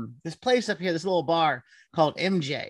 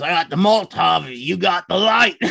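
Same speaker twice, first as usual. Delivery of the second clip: loud blurt, imitating a drunk friend; 6 dB louder than usual. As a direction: blurt it out loudly, retelling his outburst. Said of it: "he just blurts out".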